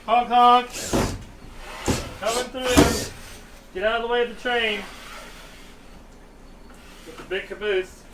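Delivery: high, playful train game voice; silly clown. Pretend. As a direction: honk like a silly toy train. Playing train while carrying.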